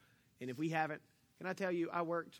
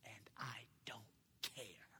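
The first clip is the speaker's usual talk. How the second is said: slow, dismissive whisper; 5 semitones lower, 14 dB quieter, slower than usual. Retold or imitated. Coworker brushing off the speaker, a cold whisper. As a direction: breathe it out coldly.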